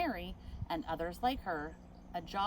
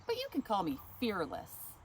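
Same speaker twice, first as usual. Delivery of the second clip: louder, higher, proud; proud declaration; 4 semitones higher, 4 dB louder than usual. Acted. Mary tells the manager her name, proudly and louder. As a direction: announce your name with pride.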